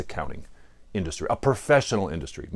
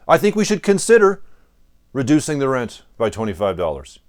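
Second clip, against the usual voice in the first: more forceful; 2 semitones higher, 4 dB louder than usual. Acted. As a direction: push the opening firmly, then settle. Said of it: "This is a little more forceful".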